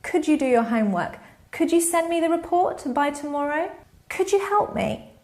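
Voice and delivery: rising, sweeter polite question; polite request. Shown as a demonstration. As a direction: ask it nicely, voice lifting. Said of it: "Try instead using an indirect question".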